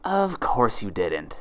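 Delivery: slow mock-sympathetic hiss. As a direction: soothe her slowly like a snake. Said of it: "the sibilant voice hissed sympathetically".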